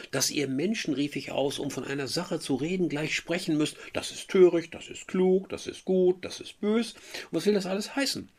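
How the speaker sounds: high, impassioned protest; Werther's outburst. Acted. Werther protesting to Albert, high and impassioned. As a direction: rail against hasty judgments.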